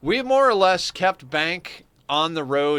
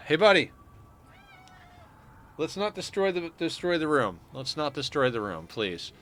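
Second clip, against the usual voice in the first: gentle pet talk; 3 semitones higher than usual. Real, not acted. Talking to pet.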